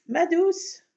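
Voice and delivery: affectionate call to a pet; pet talk. Real, not acted. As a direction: sweet-talk the kitty. Cooing to her cat.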